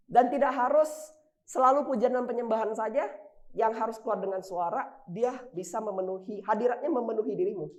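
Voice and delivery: rising sermon crescendo; preaching climax. Acted. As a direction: lift it up, full force.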